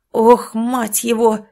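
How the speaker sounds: swearing. Acted. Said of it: "ругнулся Митя".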